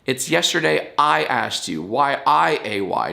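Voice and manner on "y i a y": spelled out slowly. Shown as a demonstration. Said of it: "And spell it right".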